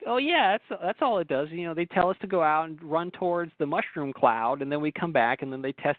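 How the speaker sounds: breezy shrug of a soldier, rushing the last line fast; mock casual soldier. Radio host imitating a soldier talking to a reporter, mock casual. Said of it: "like, casually".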